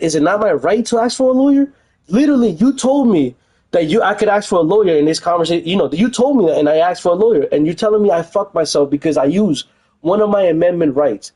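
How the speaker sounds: replaying his outraged argument with the detective, voice pitched well up; heated protest.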